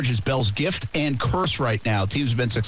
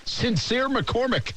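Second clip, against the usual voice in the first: amused drawn-out; 10 semitones higher, much slower than usual. Real, not acted. Savoring the funny name.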